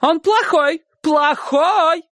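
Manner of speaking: high, emphatic cry, drawn out; simple shouted explanation. A narrator's reading. Aunt explaining to Uncle Kolya, crying out. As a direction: hammer the simple word home, high. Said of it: "поясняя свою мысль на понятном ему языке".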